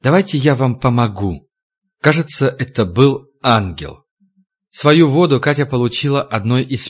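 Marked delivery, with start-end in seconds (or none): 0.0-1.5 caring offer. Acted. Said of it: "приятный женский голос участливо произнёс".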